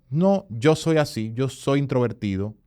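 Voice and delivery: imitating a self-limiting excuse; mock excuse. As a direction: mimic someone hiding behind a label.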